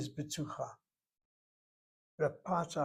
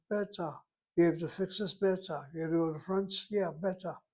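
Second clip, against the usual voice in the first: quick impatient beta; 3 semitones higher than usual. Shown as a demonstration. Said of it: "it's done fast, it's done quickly, it's done under pressure".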